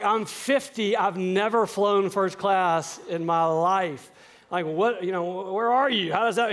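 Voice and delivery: can't believe what he's hearing; excited disbelief. Retold or imitated. Dad reacts to first class.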